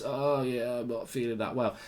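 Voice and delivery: hammed-up sick voice. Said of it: "So you try and ham it up".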